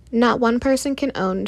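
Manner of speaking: big loud declaration. A narrator's reading. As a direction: call it out over the crowd. Shouting over the argument.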